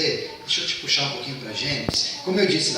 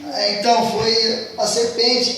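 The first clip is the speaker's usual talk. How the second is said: higher, slow drawn-out excuse; blame-shifting; 8 semitones higher, 3 dB louder, much slower than usual. Acted. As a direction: stretch it out, passing the blame. Eve blaming serpent.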